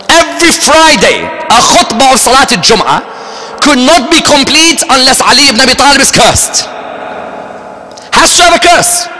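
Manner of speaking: high, hammering pulpit emphasis; decry it with pitch held high; impassioned preaching. Acted. Preacher decrying the cursing in every Friday sermon, impassioned.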